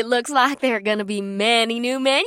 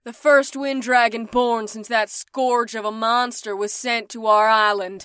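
bombastic. Acted. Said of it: "declared in a bombastic voice".

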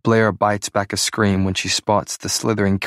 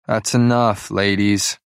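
bored; slower than usual. Acted. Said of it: "My tone is bored".

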